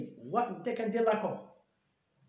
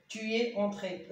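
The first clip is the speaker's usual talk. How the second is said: slow dictation; much slower than usual. Shown as a demonstration. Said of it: "أو أكسون إلا كان مذكر مفرد".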